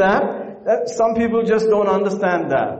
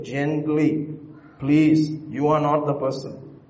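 gentle; 4 semitones lower, 4 dB quieter, slower than usual. Shown as a demonstration. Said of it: "Gently you will say".

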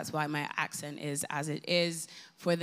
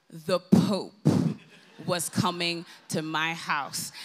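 loud punchline; 4 dB louder, slower than usual. Real, not acted. Punchline reveal.

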